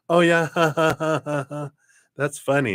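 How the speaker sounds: high, loud put-on laugh; hammed-up hollow ha-ha-ha; fake laughing. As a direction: imitate someone pretending to get the joke. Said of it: "not fake laughing like you are".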